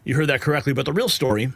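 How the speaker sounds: punchy cable-news delivery; news headline read. Acted. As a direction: sell each headline like breaking news. Reads the news headlines segment.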